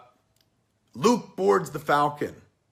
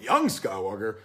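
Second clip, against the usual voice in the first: put-on lower, incredulous "Young Skywalker?" with a questioning lift; mock disbelief; 5 semitones lower than usual. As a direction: scoff at "Young Skywalker?" like it's absurd. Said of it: "we're sitting there going".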